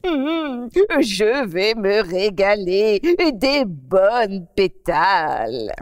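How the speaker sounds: drool over the tasty petals; greedy relish. Acted. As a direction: gourmandise lente d'un lapin. Rabbit savours petals.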